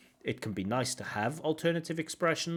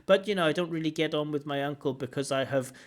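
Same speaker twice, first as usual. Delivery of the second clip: stiff memorized speech; 4 semitones higher, 3 dB louder than usual. Retold or imitated. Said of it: "I can hear the word that stands out".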